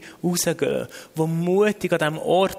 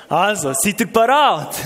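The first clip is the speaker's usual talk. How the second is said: rallying call; 4 semitones higher, 6 dB louder than usual. Real, not acted. Rallying congregation before praying aloud.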